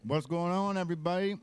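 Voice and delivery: talking around a piece of ice; ice in mouth. Real, not acted. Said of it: "I got a, a piece of ice in my mouth".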